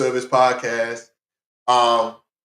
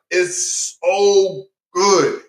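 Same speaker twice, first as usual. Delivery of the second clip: stretched-out praise; 4 semitones higher, much slower than usual. Real, not acted. Praising the film to viewers.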